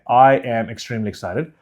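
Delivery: "I am extremely excited" with each word distinct; enunciated. Shown as a demonstration. Coach showing clear speech, "I am extremely excited" enunciated. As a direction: keep "I am" as two clear words. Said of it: "what I'm not going to do".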